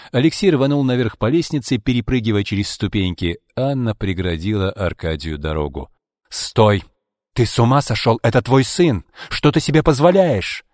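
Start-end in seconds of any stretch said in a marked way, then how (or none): 6.3-10.6 loud, climbing, outraged plea; alarmed protest. A narrator's reading. Anna blocks Arkady from their son, crying out. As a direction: cry out to stop him, rising higher.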